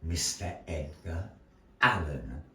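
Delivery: theatrical storyteller narration with long pauses; measured, dramatic tale-telling; story narration. A narrator's reading. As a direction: spin the tale for the audience.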